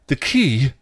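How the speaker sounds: high, loud crazed outburst; yelled. A narrator's reading. Another mental patient answers Dawn, yelling. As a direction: yell it out like a madman. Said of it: "yelled another mental patient".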